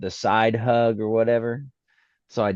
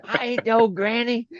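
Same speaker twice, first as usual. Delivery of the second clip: mock indignant; 14 semitones higher than usual.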